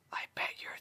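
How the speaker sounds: soft breathy whisper close to the ear. Acted. Twilight whispering into Dash's ear, gently. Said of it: "she whispered".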